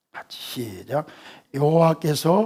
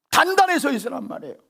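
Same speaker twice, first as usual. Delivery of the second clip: emphatic preaching; 9 semitones higher, faster than usual. Shown as a demonstration. Preacher proclaims the command.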